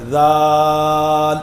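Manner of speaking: ذال with the final l stopped dead; clipped lam. Shown as a demonstration. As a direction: cut the l of ذال short. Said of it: "اب اس میں غلطی کیا ہوتی ہے".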